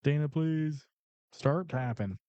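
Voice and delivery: a light put-on Southern accent; mock Southern accent. Co-host urging viewers to start typing, mock Southern accent. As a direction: tease the chat in a lightly hammed-up Southern voice. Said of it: "that's a good Southern".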